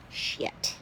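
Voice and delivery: breathy whispered swear under her breath; whispered curse. Real, not acted. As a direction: curse softly to yourself. Frustrated with camera angle.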